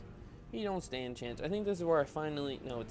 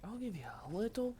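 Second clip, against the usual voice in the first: teasing; 8 semitones higher, 3 dB quieter than usual. Retold or imitated. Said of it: "I'm like".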